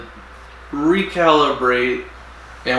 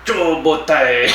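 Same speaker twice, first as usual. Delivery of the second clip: mock Japanese accent; slower than usual. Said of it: "A bow tie in Japanese is".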